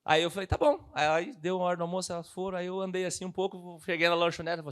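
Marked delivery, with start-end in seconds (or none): 0.5-0.9 shy agreement. Retold or imitated. Shy agreement, high squeak.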